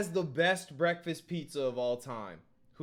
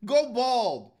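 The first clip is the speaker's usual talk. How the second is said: higher, louder, laughing through it; laughing rant; 9 semitones higher, 6 dB louder than usual. Real, not acted. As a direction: cackle it out while telling him to go bald. Laughing rant about the bald streamer.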